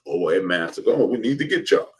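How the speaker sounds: mock corporate courting, pitch jumping up; lightly voiced sponsors rushing over; eager company reps. Liquor companies wooing the platform, eager mock pitch. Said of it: "they'll be".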